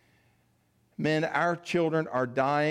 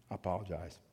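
choked up; 6 semitones lower, 10 dB quieter, faster than usual. Real, not acted. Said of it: "why I'm so emotional".

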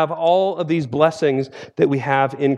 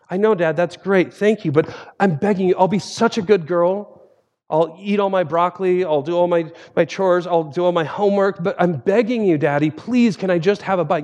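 higher, a lightly voiced little girl begging; 3 semitones higher than usual. Daughter begging Dad for a bike, in a lightly raised begging voice. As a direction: plead with Dad like a small child promising to be good.

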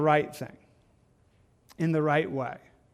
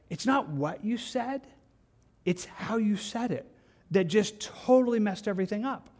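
mock hurt friend; 5 semitones higher than usual. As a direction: lightly voice the offended person. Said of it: "they'll say something like this".

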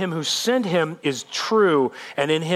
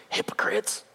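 soft, voiceless whisper; whispered rebuke; 8 dB quieter than usual. Acted. Jesus to Jewish leaders who seek to kill him, whispered rebuke. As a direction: let the accusation out under the breath.

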